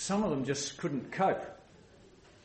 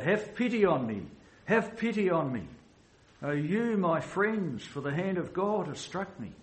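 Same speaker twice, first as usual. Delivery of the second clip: a touch higher, lifted plea to friends; pleading cry; 5 semitones higher than usual. Retold or imitated. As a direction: voice Job's cry without full force. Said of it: "he cried out".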